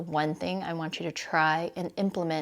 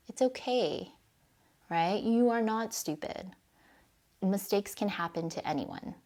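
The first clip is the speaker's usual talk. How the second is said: self-compassion; 5 dB quieter than usual. Shown as a demonstration. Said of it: "talk to yourself like".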